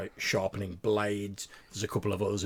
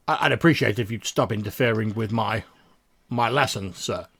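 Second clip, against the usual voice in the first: stern dwarf; 10 dB louder than usual. Acted. Dwarf NPC voiced by GM.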